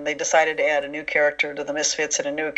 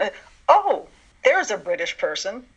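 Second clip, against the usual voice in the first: pleasant surprise; 3 semitones higher than usual. Retold or imitated. Writer finally hears a real Brit on tape, pleasantly surprised. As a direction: act out relieved surprise, then settle. Acting out discovery on audition tape.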